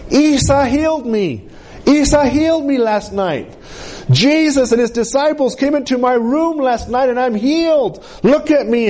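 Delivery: put-on mildly excited child sharing good news; happy, excited. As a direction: imitate a girl's happy announcement. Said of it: "the little girl was so happy".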